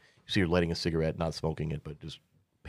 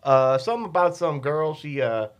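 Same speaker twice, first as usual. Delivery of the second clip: dismissive woman; 8 semitones higher, 3 dB louder than usual. Acted. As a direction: brush it off as gossip. GM as Azul tells story.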